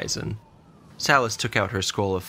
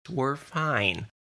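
higher-pitched, gentle reassurance; calm them in a lifted voice; soothing; 7 semitones higher than usual. A narrator's reading. Salas calming her nervous familiar, soothing. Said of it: "said in a soothing voice".

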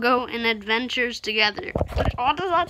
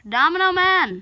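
calling out; 6 semitones higher than usual. Acted. Acted call to character.

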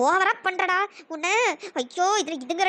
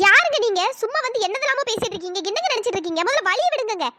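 raised, indignant challenge; 3 semitones higher than usual. Acted. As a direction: tell off a pushy stranger. Girl confronts stranger blocking her.

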